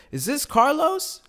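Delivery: mock-sweet slow "Is this Carlos?"; exaggerated innocent question. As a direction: ask as if you don't already know. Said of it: "So I said".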